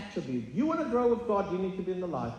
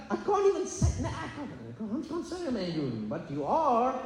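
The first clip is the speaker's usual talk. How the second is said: imitating a flustered friend; 6 semitones higher than usual. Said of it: "He's like".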